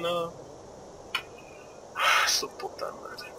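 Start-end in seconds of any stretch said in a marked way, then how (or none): 2.0-3.3 slow, breath-only swearing; soft, voiceless expletive; whispered curse. Real, not acted. Muttered curse in game menu.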